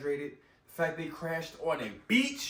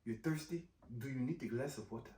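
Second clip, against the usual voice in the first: cold line; 4 semitones lower, 9 dB quieter than usual. Retold or imitated. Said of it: "she did deliver a cold line".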